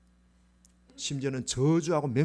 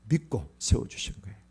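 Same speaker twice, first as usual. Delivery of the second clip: whisper; 4 semitones lower than usual. Real, not acted. Sermon climax hushed.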